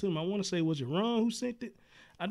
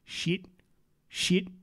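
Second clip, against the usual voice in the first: imitating repeating baby; 8 semitones higher, 10 dB louder, much slower than usual. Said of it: "she was over there saying".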